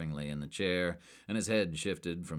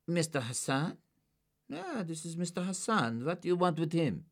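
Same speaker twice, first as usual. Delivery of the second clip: higher, cautious recognition; wary suspect; 12 semitones higher than usual. A narrator's reading. Suspect recognising a photo for agents, lightly voiced and wary. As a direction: play it careful.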